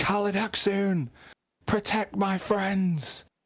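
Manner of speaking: booming yell pitched very high. A game narrator voices a player character shouting against a draconic artifact: booming shout. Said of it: "with this booming voice".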